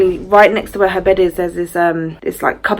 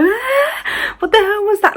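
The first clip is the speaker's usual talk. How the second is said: retold panicked cry; slower than usual. Mum grabbing her son after the hand, high mock panic. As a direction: imitate a frightened shriek without the volume. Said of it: "I start crying".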